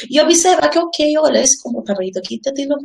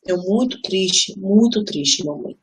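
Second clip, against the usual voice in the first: put-on little child's voice; 2 semitones lower, 3 dB quieter, much slower than usual.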